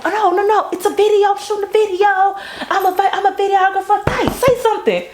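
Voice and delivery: high, hurried and flustered; flustered reassurance. Retold or imitated. He retells calming the screaming girl, high and flustered. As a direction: rush to explain it's only a video.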